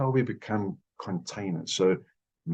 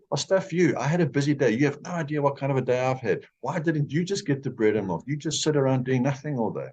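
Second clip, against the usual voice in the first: a husband who is tired of the day, snapping back at the nagging; defensive angry husband; 5 semitones higher than usual. Retold or imitated. Husband snaps back defensively at wife.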